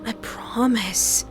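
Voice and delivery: slow, soothing creepy comfort; calm her down sweetly; false reassurance. Acted. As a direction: captor gently reassuring his frightened prisoner. Captor soothes scared victim.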